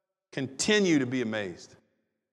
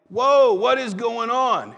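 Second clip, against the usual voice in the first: amazed; 6 semitones higher, 7 dB louder, slower than usual. Acted. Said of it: "they're like".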